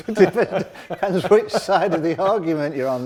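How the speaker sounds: slow, laughing through the words; laughing retort about fairness. Real, not acted. Laughing at the teasing euphemism.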